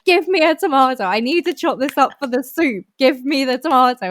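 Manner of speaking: frantic, high, loud kitchen demands; shouting orders. Retold or imitated. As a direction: yell at a useless teammate to hurry up. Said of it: "times where I'm shouting at, like, them going".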